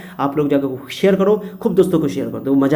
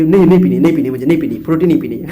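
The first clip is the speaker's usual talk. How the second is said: fussy refusal; 4 dB louder than usual. Acted. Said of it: "जो ज़्यादा नखरा करते हो".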